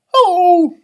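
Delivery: loud, high bark of a greeting; barked hello. A narrator's reading. Dog greeting the leprechaun with a loud bark. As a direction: bark it out like a big friendly dog. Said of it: "she barked".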